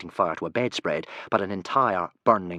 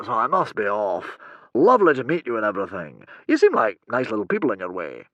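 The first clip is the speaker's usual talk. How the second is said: hurried hero; 2 semitones higher, 6 dB louder than usual. A narrator's reading.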